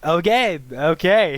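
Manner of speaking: alarmed backing off. Acted. GM as inmate retreating from acid, high and alarmed. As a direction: back off fast from the acid, alarmed.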